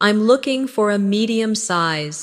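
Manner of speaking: natural conversational answer. Shown as a demonstration. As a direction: say it as you would in a shop. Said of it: "again more naturally".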